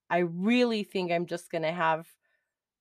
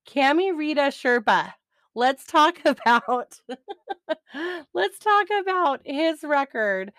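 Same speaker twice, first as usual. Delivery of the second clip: laughing; 7 semitones higher, 4 dB louder than usual. Real, not acted. Laughing while introducing record.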